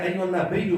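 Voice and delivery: "ایو النبیو" ending as na-beyyu; wrong "ایو النبیو", vowel slackened; mispronunciation demo. Shown as a demonstration. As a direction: loosen the bii in "النبیو" to bey. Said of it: "اکثر لوگ غلط پڑھتے ہیں".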